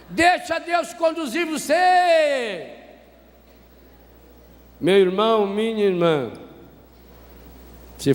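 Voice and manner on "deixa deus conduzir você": drawn-out preacher's shout; preaching shout. Real, not acted. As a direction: proclaim it to the whole church. Preacher's climactic exhortation.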